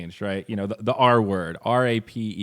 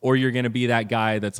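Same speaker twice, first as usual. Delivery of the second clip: usual speaking voice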